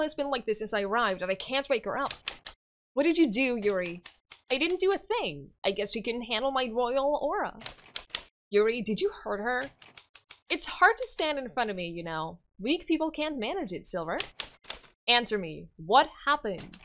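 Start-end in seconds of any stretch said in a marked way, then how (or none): 4.5-14.2 a spoiled little king showing off; bratty boy king. Acted.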